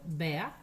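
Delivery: "bea" with an e gliding into schwa; English "ea" diphthong. Shown as a demonstration. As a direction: say "bea" with a silent final R. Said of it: "E A R, como por ejemplo".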